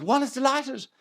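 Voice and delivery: mock upper-class English, high and slow; posh royal voice. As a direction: put on a grand queenly accent, slowly. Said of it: "why are you talking like that".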